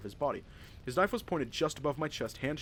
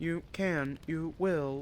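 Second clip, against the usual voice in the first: slow voice, as robotic as possible; 3 semitones higher than usual. Reading a story aloud, voicing a character who answers: robotic voice. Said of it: "I'm gonna try to do it as robotic as possible".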